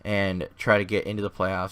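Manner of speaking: hoarse, fading voice; a voice that's nearly gone. Real, not acted. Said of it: "as I'm losing my voice here".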